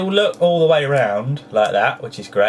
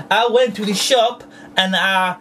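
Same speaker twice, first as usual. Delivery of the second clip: odd put-on voice; 3 semitones higher than usual. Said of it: "I talk like this for quite a while".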